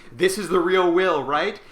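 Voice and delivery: frantic demand at a deathbed; urgent shout. Retold or imitated. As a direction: yell it to wake the dying man. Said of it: "shakes Count Bezukhov awake and goes".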